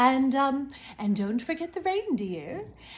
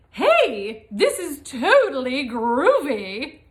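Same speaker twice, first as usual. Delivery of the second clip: excited cry; 7 dB louder than usual. Acted. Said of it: "Pete the Cat cried".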